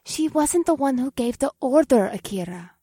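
sharp, understated reminder; pointed reminder. Acted. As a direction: correct her a little sharply. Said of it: "in a sharp tone".

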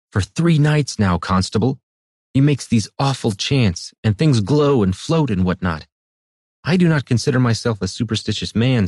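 an anxious cobbler pleading to be believed; timid man voice. A narrator's reading.

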